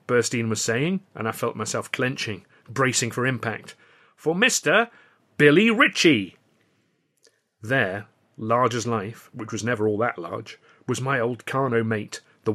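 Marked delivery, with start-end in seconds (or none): 4.2-6.4 slow, drawn-out, louder showman intro; grand announcement. Acted. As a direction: stretch the name out like a ringmaster. Burstein announces the new star.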